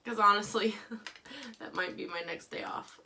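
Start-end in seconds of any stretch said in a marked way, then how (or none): 1.2-3.1 laughing. Real, not acted. Joke about overwork.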